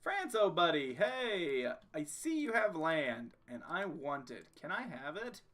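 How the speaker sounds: playful, coaxing buddy-to-buddy plea; mock-friendly wheedling. Player asking France for its land, mock-friendly wheedling. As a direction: sweet-talk a rival into handing it over.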